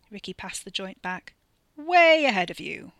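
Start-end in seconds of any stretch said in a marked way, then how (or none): 1.7-2.9 high, loud chortle; chortling. Acted. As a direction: chuckle through the joke. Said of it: "Wes chortled".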